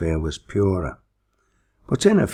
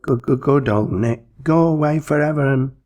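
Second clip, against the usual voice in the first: higher, stuttering frightened plea; trembling stutter, higher; stammering in terror; 8 semitones higher, 3 dB louder than usual. A narrator's reading. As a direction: stammer it out, terrified. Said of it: "merely stammered and stuttered".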